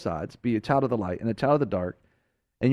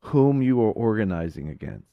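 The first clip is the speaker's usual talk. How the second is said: lower, slow, solemn divine voice; voice of Jesus; 4 semitones lower than usual. Acted. Jesus answers Saul on the road, low and slow.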